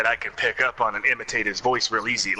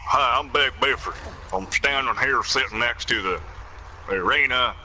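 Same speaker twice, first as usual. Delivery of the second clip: Big Buford voice. Acted. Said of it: "doing the voice of Big Buford".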